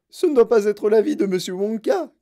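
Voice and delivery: plus aigu et fort; crié. Acted. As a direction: crier avec reproche. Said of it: "cria madame Gloop". (Mme Gloop crie contre Wonka)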